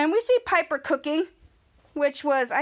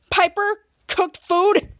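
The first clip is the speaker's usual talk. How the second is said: shocked disbelief; 4 semitones higher, 5 dB louder, much slower than usual. Retold or imitated. Shocked they ate it.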